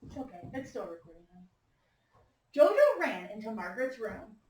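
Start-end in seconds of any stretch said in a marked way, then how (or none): 2.6-4.4 lively read-aloud with character lines; story reading. A narrator's reading. Teacher reads picture book aloud.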